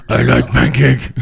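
slow dim caveman talk; a lightly voiced caveman. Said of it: "he sounded like a caveman".

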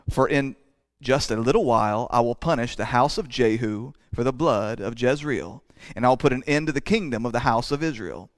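measured, solemn Bible reading; scripture reading. Acted. Preacher reads Hosea aloud to the congregation, solemn and measured. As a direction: read the text out with weight.

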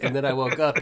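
can barely get it out for laughing; giggling retold movie line; laughing quote. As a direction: retell the line through laughter. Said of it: "as he's like".

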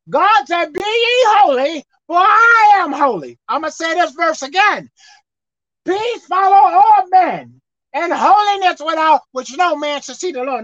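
emphatic scripture proclamation, key words stretched; forceful preaching. Real, not acted. Preacher quoting God's call to be holy, forcefully.

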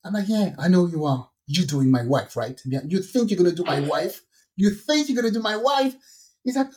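fake man voice. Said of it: "change my voice and take a man voice".

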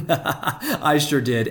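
laughing. Real, not acted. Laughs at own argument.

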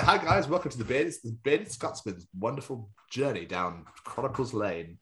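a hammed-up host intro; lightly hammed presenter voice; mock presenter. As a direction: play a cheesy show host. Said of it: "We're like".

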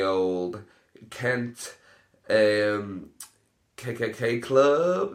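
slow, drawn-out joke announcement; milk the punchline slowly; mock announcing. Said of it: "joke venue names".

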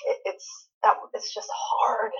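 breathy whisper, voice dropping away. Real, not acted. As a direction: whisper it like a hard confession. Torn over choosing a favorite.

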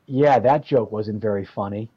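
low, booming voice over a speaker; a lightly voiced big-voiced club owner; booming bass voice. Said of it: "this booming bass voice that Paul had".

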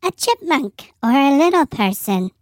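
squeaky sped-up pitch effect; helium voice. Shown as a demonstration. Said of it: "turn the pitch up and sound like".

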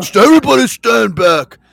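imitating dad. Son imitating his father at the sink, loud and bossy. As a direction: bark the warning like a dad taking charge. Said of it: "my father would be like".

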